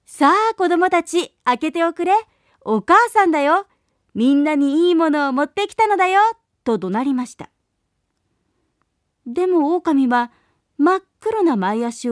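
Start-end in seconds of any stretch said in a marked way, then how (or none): 0.1-6.2 loud call. Acted. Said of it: "大きな声で".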